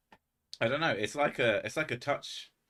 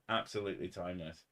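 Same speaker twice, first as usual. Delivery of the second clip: softer, a bit faster echo of "Absolutely timeless"; quiet echo; 2 semitones lower, 6 dB quieter, faster than usual. Shown as a demonstration. Streamer echoing his own praise softly to chat, softer. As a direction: repeat "Absolutely timeless" under your breath, quickly.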